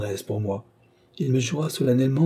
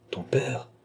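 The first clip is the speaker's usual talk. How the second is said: startled tremor; 6 dB quieter than usual. A narrator's reading. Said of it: "fit-il avec un tressaillement dans la voix".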